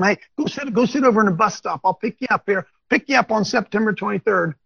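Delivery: lightly voiced, breezy arrangement of a pickup; mock casual Jesus. Preacher doubting Jesus told followers this, mock casual quote. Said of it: "Do you think Jesus told them".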